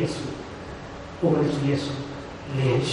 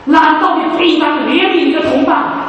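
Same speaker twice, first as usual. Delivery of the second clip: stern master; 4 semitones higher than usual. Retold or imitated. Master rebukes unforgiving servant.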